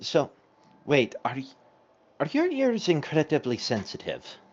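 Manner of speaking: whispering in character. Asking in character whether the other's ears are sensitive: whispering in character. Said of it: "I'm just gonna, like, whisper".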